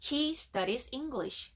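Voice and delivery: slow, careful English model sentence; measured reading, leaving each word easy to copy; model for repeating. Shown as a demonstration. Teacher giving learners a sentence to repeat, slow model reading. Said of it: "세 번씩 따라합시다".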